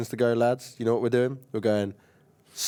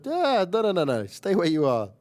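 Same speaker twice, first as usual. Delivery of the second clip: mock warning; 5 semitones higher than usual. Other team warning a player to stay where he is, mock warning. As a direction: wave someone off in mild mock alarm.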